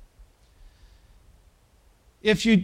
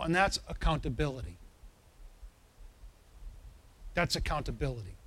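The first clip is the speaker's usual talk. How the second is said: quiet, quick emphasis; 5 semitones lower, 11 dB quieter, faster than usual. Acted.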